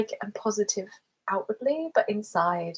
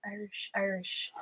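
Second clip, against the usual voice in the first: soft, shaky go at an Irish accent; attempted Irish accent; 7 dB quieter than usual. Shown as a demonstration. Streamer testing a not-great Irish accent, attempted Irish accent. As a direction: try out an Irish lilt on the word. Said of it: "Irish accent's not that great".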